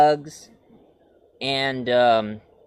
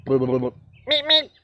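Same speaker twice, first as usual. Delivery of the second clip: Roadrunner meep meep. Retold or imitated. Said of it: "the Roadrunner is all".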